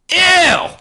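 high, loud "ew"; sharp high yelp of disgust; disgusted outburst. Real, not acted. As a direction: recoil loudly in cringing disgust. Disgust at own old diary.

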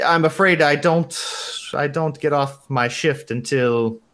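put-on halting, polite receptionist, lightly German-accented; hesitate, then tentatively accept, in a loose German accent; Ramona. Intrigued receptionist suggests coffee after her shift, light German accent. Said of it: "some variation of my shitty German accent".

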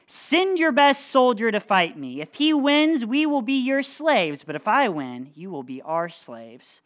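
mock bellow at the enemy; lightly voiced giant's dare; giant shouting a challenge. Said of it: "Goliath came out and shouted".

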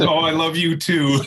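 hammed-up wife finally saying it back; imitating exasperated wife. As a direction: toss it off like a wife humoring him. Wife giving in, mocked.

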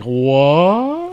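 mock startled what; high loud startled what. Priest hearing the village answer, a shocked what.

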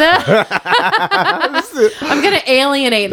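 talking through real laughter; high-pitched start, laughing as you say it. Real, not acted. Host jokes about offending Bostonians, laughing. Laughing over the mock accent.

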